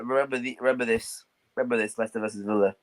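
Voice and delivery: soft, sinister whispered warning; ominous whisper. Acted. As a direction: hush it like a threat.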